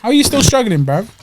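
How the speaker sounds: high incredulous jab; mock him in disbelief; exasperated teasing. Real, not acted. Mocking friend's struggle.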